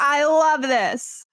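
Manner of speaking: drawn-out gushing joy; gushing delight. Retold or imitated. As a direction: savor every word with glee. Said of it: "be like".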